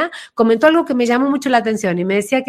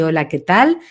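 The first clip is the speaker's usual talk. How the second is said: calm, lower grounded greeting; 5 semitones lower than usual. Retold or imitated. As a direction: settle the voice down and greet. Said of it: "la voz le bajó, así". (saludo con la voz más grave y asentada)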